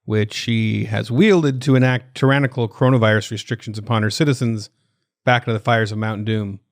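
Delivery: news anchor read. Acted. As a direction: read it like a serious news bulletin. News read over music.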